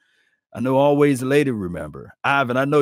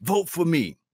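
much higher pleading mock voice; mocking needy player; 7 semitones higher than usual. Host mocks Reggie White pleading for Pro Bowl votes, high mock plea. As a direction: play the legend begging for votes. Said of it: "Reggie White had to say".

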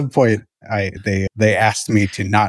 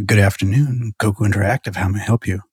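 lightly sultry receptionist greeting; a hint of a breathy phone voice, understated. Shown as a demonstration. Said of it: "I was trying to be very sultry".

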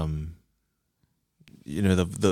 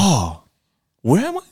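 very high, louder dazed cry; confused pilot; 10 semitones higher, 5 dB louder than usual. Retold or imitated. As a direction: squeal it lost and confused. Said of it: "he's like".

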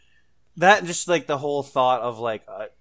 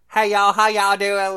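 put-on southern hick accent; 9 semitones higher, 10 dB louder than usual. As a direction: play a Southern hick dwarf saying hi. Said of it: "dwarfs are southern inbred hicks".

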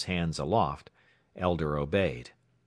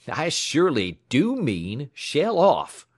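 loud, slow, higher roar; roaring order; 8 semitones higher, 6 dB louder, slower than usual. A narrator's reading. Tramp ordering the clerk to strip, roaring. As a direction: bellow the command. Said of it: "roared the tramp".

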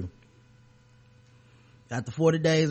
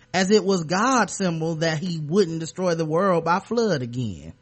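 mock Southern accent; 3 semitones higher than usual. Mock Southern accent for the councilman's email. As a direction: ham up a genteel Southern accent. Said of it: "I wanna give him a Southern accent".

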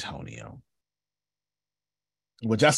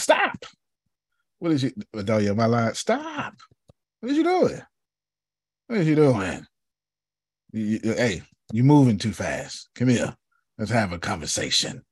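calling out after her. Retold or imitated. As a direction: shout after someone walking away. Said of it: "I was like".

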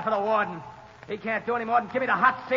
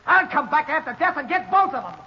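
ordinary talk

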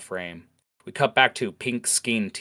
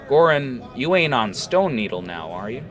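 accusing tiefling; 5 dB louder than usual. Acted. Jackal accuses orc.

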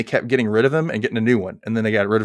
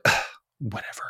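dismissive; 6 dB quieter than usual. Retold or imitated. Sharon snubbing her ex-bestie's hi, dismissive. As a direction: brush them off under your breath. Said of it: "That kind of look. She isn't having it".

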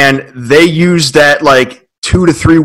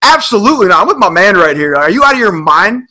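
mock outrage; 6 semitones higher than usual. Retold jumping into basketball argument.

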